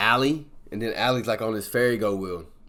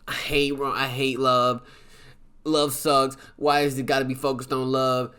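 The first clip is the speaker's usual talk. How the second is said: bitter scoff; 4 semitones higher than usual. Retold or imitated. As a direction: spit out disdain for love. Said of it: "Allie's like".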